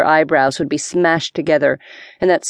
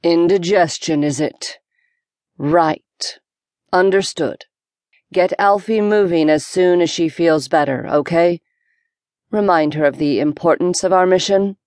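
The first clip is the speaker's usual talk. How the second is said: deep authoritative boom. Acted. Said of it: "Captain Montalbaum's voice boomed, deep and authoritative".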